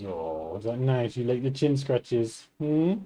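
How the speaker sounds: hushed, slow pet talk; tender murmur to a purring cat; soft cooing to cat. Real, not acted. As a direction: coo at the cat while scratching its chin.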